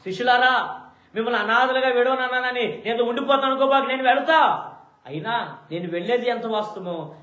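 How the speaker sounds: high, loud fervent Lord speaking; Jesus firmly reassures his followers; Jesus addressing disciples. Acted.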